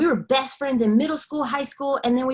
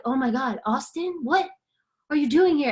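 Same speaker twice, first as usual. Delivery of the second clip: freaking out; 4 semitones higher than usual. Retold or imitated. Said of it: "freaking out".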